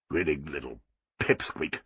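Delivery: low, soft dismayed protest; Arthur, dismayed. A narrator's reading. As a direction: protest weakly, appalled. Arthur grumbling.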